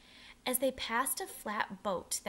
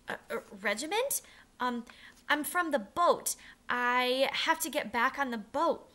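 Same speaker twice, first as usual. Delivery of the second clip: high, louder frightened pleading; 4 semitones higher, 6 dB louder than usual. A narrator's reading. Boy pleading with the captain to go back to the boat, high and scared. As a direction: beg to be let go, voice climbing. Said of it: "Matt pleaded".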